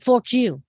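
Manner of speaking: "Fork" with a heavy added R; overpronounced R. Retold or imitated. Imitating their accent to friends, hard R in "Fork". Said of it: "overpronounce their R's to me".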